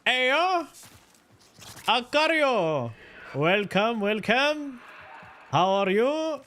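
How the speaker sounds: high, bright-eyed Aussie greeting; Australian accent. Pretend. Streamer greeting a raider, in a put-on Australian accent. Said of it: "was that a good Australian accent?".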